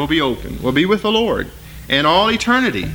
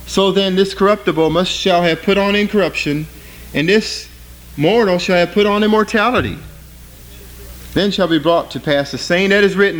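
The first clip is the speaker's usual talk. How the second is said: raised, solemn preacher's reading voice; scripture reading; 3 semitones higher than usual. Acted. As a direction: proclaim the verse to the congregation, pitched up. Reads scripture aloud in sermon.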